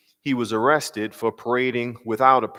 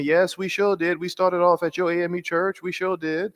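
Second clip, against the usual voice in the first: higher John Lewis impression; 6 semitones higher than usual. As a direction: lean into the elder statesman's cadence. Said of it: "This is my John Lewis accent".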